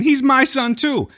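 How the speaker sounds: high, loud New York mother; imitating a Brooklyn mom's plea; New York accent. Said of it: "they all talk like they're from New York".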